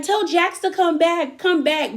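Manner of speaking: high, drawn-out tipsy pleading; imitated drunk Erica. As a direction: imitate a drunk woman calling someone back, slowly. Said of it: "like, she's really drunk".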